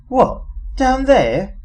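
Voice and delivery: slow, high and disgusted; severe distaste. A narrator's reading. Trillian balking at going down the crater, with severe distaste. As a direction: recoil from the idea, drawn out in distaste. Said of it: "said Trillian with severe distaste".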